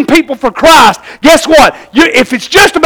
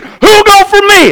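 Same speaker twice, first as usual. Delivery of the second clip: preaching call; 4 semitones higher than usual. Retold or imitated. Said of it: "was preaching".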